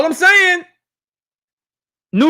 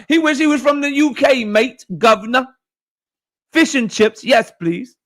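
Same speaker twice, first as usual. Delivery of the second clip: a light mock British accent, pitched up. Mocking Bud for wishing he was British, in a light mock British accent. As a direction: tease him with a hammed-up British accent.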